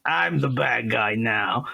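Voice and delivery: slow mock bad-guy voice; lightly hammed-up villain, drawn out; goofy villain voice. Host finishing the villain bit, in a slow silly voice. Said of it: "if I had to voice that character".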